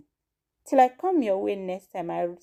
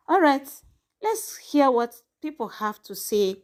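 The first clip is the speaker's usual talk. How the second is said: lively host call; 5 semitones higher than usual. Real, not acted. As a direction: kick off the segment energetically. Host switches to viewer segment.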